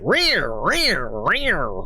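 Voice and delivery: repeated screech. Retold or imitated. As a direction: pulse the grinding noise with each press. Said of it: "it's like".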